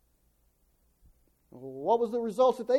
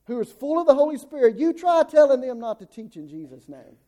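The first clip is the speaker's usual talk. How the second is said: raised, much louder challenge; impassioned preaching; 5 semitones higher, 11 dB louder than usual. Real, not acted. Preacher defending young believers on fire with God, impassioned. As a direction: ring it out high and forceful to the congregation.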